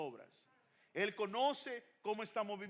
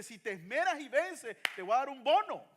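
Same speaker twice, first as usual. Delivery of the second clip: booming promise; 4 semitones higher, 9 dB louder than usual. Acted. Voicing the Lord's promise.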